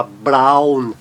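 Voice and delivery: brown said slowly with an "ow" glide; AU diphthong. Shown as a demonstration. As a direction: draw out the "au" in brown. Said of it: "sempre tem o fonema de au".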